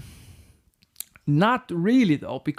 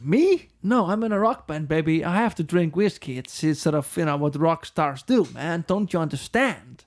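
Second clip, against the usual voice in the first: cocky rock star. Retold or imitated. To his girlfriend about his drinking: hammed-up rocker denial. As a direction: brush her off like a swaggering rock star. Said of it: "And I was like".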